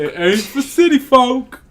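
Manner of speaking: mock the farm ad in a hokey twang; exaggerated yokel slogan voice; hick voice.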